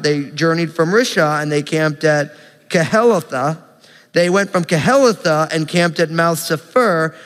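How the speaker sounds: brisk, even public Bible reading; reciting a long list, landing on each name; scripture reading. Acted. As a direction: read the list of place names out confidently. Reads scripture list of camps aloud.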